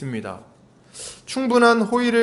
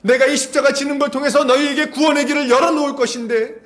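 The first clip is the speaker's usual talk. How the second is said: fervent preaching; 8 semitones higher than usual. Acted. Preaching at rising force.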